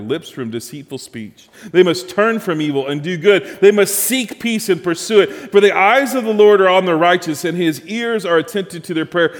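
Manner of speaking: emphatic, forceful Bible reading; scripture reading. Acted. Preacher reading Peter's letter to the congregation, emphatic scripture reading. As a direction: read scripture out with punched key words.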